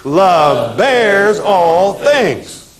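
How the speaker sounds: very slow, every word drawn out for the class; slow recitation. Shown as a demonstration. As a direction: chant it slowly so they can repeat. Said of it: "Say it with me".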